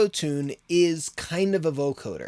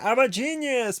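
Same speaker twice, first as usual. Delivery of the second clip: high-pitched mock triumph; playful burst of self-congratulation; mock self-amazement; 9 semitones higher, 4 dB louder than usual. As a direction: exclaim it higher, as a pleasantly surprised inventor. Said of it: "you kinda surprise yourself".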